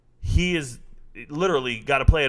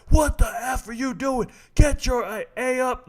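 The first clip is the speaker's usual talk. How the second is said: high-pitched drill-style yell, stretched out; 10 semitones higher, slower than usual. Retold or imitated. Young staff sergeant to a fifty-three-year-old private, yelling. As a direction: chew out a subordinate at full pitch. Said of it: "I'm yelling at a fifty-three-year-old man".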